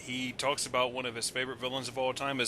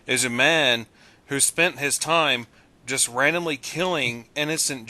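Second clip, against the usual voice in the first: emphatic loud insisting; 7 dB louder than usual. Real, not acted. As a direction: cut through and insist he listen. Insisting over others, emphatic.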